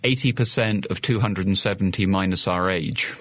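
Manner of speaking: measured, deliberate repeat of the formula. Real, not acted. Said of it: "Say that again slower".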